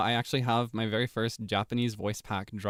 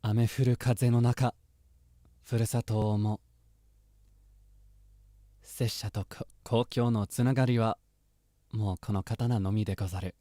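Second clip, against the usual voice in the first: solemn samurai line; samurai quote reading. Acted. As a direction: read it like a wandering swordsman. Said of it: "Genshin reference. I'll try".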